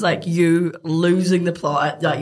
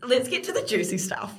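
laughing; 5 semitones higher, 6 dB quieter than usual. Real, not acted.

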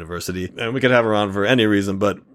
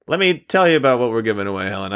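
quick, pushy sales pitch; used car salesman; faster than usual. Acted. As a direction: sell it like a car dealer. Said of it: "I sound like a used car salesman".

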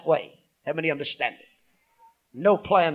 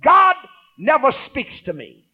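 raised, slow mock complaint; mocking a doubter; 9 semitones higher, 8 dB louder than usual. Pastor imitating a doubting believer, raised and slow. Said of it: "don't ever allow yourself to say".

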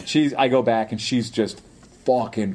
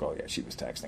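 offhand cop; 12 semitones lower, 15 dB quieter than usual. Retold or imitated. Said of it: "And he's like".

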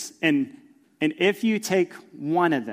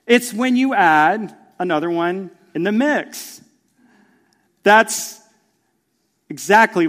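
louder sermon delivery; preaching; 3 semitones higher, 8 dB louder than usual. Acted. Pastor preaching to the church with rising force. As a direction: press the point to the congregation.

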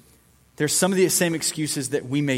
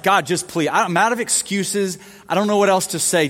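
higher, fast desperate begging; pleading Moses; 4 semitones higher than usual. Retold or imitated. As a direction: beg God with everything you've got. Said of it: "he's like".

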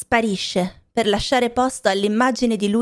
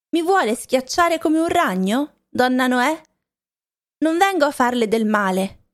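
put-on higher-pitched, indignant old woman's voice; protesting old woman; 4 semitones higher than usual. Old woman pushing at the gate Noemi shuts on her, indignant protest.

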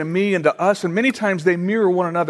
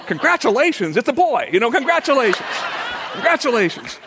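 high-pitched, lilting mock Indian accent; 6 semitones higher than usual. Pastor mimics doctor's congratulations, playful Indian accent. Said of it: "in his heavy, uh, accent, he says".

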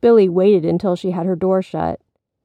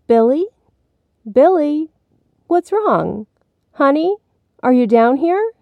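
high, louder searching call; mother calling out; 8 semitones higher, 4 dB louder than usual. A narrator's reading. Mommy looking for Billy, calling out. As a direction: call down the stairs for your child.

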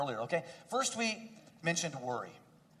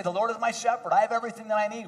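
raised, rising affirmation; louder, building declaration; 5 semitones higher, 4 dB louder, faster than usual. Acted. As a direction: proclaim it with growing force.

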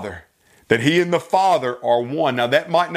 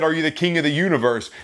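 quick hypothetical question; much faster than usual. Shown as a demonstration. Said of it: "If he had said".

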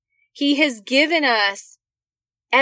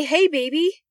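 lightly voiced tender God, a little higher; 3 semitones higher than usual. God comforting his daughter in a tender, reassuring voice. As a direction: gently reassure a hurting daughter. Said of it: "will provide you a way out to say".

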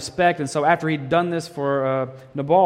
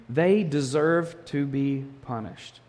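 slow emphasis; slower than usual. Shown as a demonstration. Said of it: "If someone violates you".

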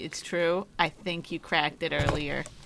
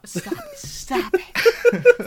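words broken by a hiccup; 5 dB louder, much slower than usual. Real, not acted. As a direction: hiccup mid-phrase. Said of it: "I have the hiccups".

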